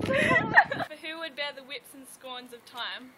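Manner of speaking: slow, measured verse delivery; soliloquy recitation. Acted. Student reciting Hamlet's speech, slow verse recital. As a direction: recite it with deliberate spacing.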